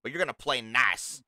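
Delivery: stern warning. Acted. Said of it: "It's like".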